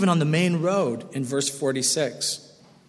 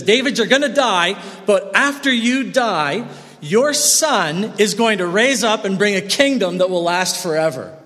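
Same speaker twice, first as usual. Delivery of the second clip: proclaiming promise; 3 semitones higher than usual. Retold or imitated. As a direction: announce God's promise with weight. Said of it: "It says".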